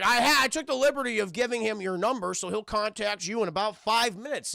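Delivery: put-on a touch of drunken bluster; drunk old friend. Drunk friend explaining himself to Lara, slightly tipsy voice. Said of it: "it's the drunk, uh, friend of her father".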